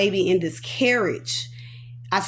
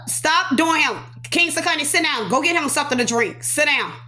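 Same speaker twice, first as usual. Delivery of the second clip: higher, firm commands; real parental scolding; 4 semitones higher than usual. Real, not acted. Mother interrupts her story to correct kids, firm scolding.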